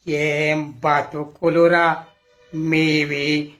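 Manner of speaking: scornful. Acted. Character scorns cowering villagers.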